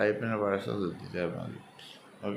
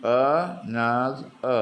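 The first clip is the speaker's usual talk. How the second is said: "എ, നാസ്, എ" split by pauses, middle one strongest; syllable by syllable; 4 semitones higher, 5 dB louder, much slower than usual. Shown as a demonstration. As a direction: break "another" into three separate beats, "നാസ്" loudest. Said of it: "മൂന്ന് syllable". ("എ, നാസ്, എ" ഓരോ syllable വേർതിരിച്ച്)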